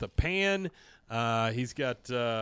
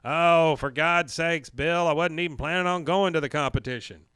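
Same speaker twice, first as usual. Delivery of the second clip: exasperated outburst; 4 semitones higher, 7 dB louder than usual. Retold or imitated. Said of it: "Dale exasperated".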